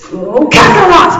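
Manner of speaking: high, slow, explosive yell; dramatic drawn-out shouting; loud shout. A narrator's reading. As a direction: start the name, then bellow the wrong one. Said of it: "he finished loudly".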